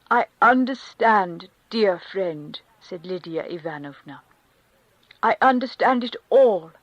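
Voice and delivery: loud, fervent comfort; consoling Countess. Acted. The Countess comforting Karenin, loud and fervent. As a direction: sweep him up in her sympathy.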